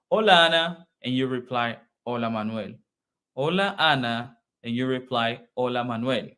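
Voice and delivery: measured, formal hola exchange; formal greeting. Shown as a demonstration. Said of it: "This is formal".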